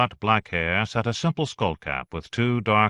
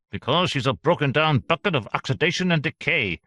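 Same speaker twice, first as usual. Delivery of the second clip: higher, scornful outburst; shouting; 7 semitones higher than usual. Acted. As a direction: spit out contempt at him. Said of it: "Center shouted".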